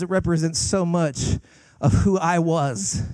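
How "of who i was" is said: slow phrase landing on "was"; stress on was. Real, not acted. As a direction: lean on "was" and draw it out. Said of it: "was being the emphasis".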